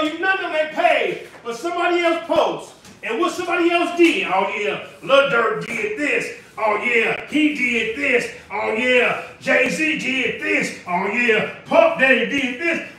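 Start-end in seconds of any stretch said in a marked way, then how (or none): 4.3-12.9 slow, drawn-out mimicry of gossipers; mocking gossip imitation. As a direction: mimic idle celebrity gossip, dragging each claim. Mimics people gossiping about celebrities.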